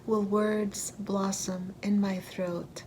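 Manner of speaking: deliberate, phrase-by-phrase poetry recital; poem reading. Acted. Poet voicing a prisoner's questions to listeners, measured recital. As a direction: lift each opening line, then pause between phrases. Reads own poem aloud.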